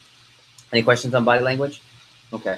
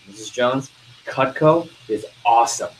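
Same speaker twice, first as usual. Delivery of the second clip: firm, punchy praise; enthusiastic pitch. Shown as a demonstration. Salesperson showing good voice inflection to customer, enthusiastic. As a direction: sell it with emphatic voice inflection. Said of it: "Voice inflection".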